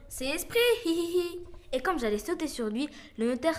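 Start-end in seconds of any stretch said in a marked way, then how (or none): 0.1-1.4 ricanement. Acted. Sorcière qui ricane.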